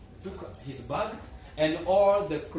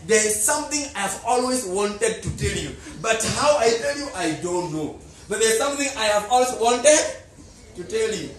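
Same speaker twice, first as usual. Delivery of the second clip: laughing nervously; 5 semitones higher, 8 dB louder than usual. Acted. Watchman hesitantly confesses.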